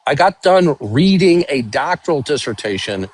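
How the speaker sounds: mic cutting out; choppy broken-up audio; bad connection. Real, not acted. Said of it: "Doc, your mic is cutting out".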